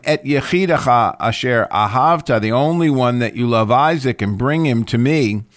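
"et yechidecha asher ahavta" begun as a separate phrase after a comma; group "the only one that you love" with "Isaac"; added comma. Shown as a demonstration. Lecturer shows the added comma, "the only one that you love" as a new phrase. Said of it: "but if we add one".

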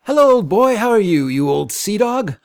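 high, loud, hearty greeter with laughter; gruff old fisherman. Acted. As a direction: boom a jolly hello to an old pal. Jovial visitor greets the captain.

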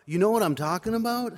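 loud and high, almost yelling; near yell. Retold or imitated. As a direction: call it out across the crowd. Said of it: "He almost yelled now".

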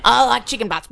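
loud, laughing take-off; Cambo impression. Mocking Cambo to the co-hosts, loud impression. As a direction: put on a daft, loud greeting voice. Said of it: "I thought that was Cambo saying that".

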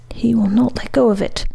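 whispered in terror; terrified whisper. Acted. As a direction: breathe it out, frightened. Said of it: "thought the terrified woman".

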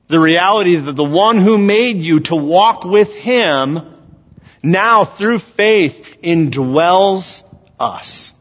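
emphatic, projected sermon delivery; preaching. Real, not acted. Preacher telling the church God lives within them, preaching. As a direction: preach it in measured, weighted phrases. Reads and expounds scripture.

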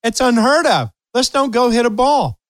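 loud and high, laughing through it; giddy laughing suggestion. Retold or imitated. Laughing retold quote to player.

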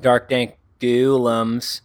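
slow, drawn-out lightly ghoulish voice. Acted. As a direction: stretch each word like a hint of a ghoul. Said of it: "I need my ghoul voice again".

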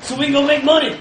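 loud, swaggering mercenary voice; brash mercenary. Acted. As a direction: boast like a greedy thug. Mercenary character boasting.

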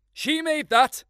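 very high, loud cry of discovery; excited shout. A narrator's reading. Boy spotting the daisy chain, excited high shout. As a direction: yelp it out the moment you see it. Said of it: "I shouted".

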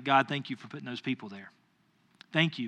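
subdued, sincere gratitude; quiet grateful prayer. Retold or imitated. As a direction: re-enact a humbled thank-you to God. Retold grateful prayer after calming down.

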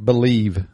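BELIEVE in an everyday country accent, ending on a v; hillbilly pronunciation. Shown as a demonstration. Showing a friend how they say it, hillbilly pronunciation. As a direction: say BELIEVE plainly, country style. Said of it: "I say, and it's just hillbilly".

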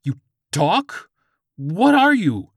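high, loud stunned questions; shocked disbelief. Acted. George confronts a talking Chihuahua, shrieked disbelief. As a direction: let the voice leap up in alarm.

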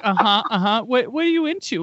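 high mock-interrogator questions; imitated grilling. Screener grilling a suspected industry person, high imitated probing. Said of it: "she was grilling me".

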